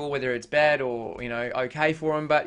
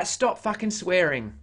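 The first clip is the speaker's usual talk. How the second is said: slightly raised, drawn-out whinge; mock whinge; 3 semitones higher than usual. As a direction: read it as a slow mock complaint. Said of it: "having a bit of a whinge".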